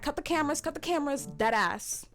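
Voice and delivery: high, loud mock order; mimicked urgent demand. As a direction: imitate an upset woman calling out a demand. Retelling her upset demand.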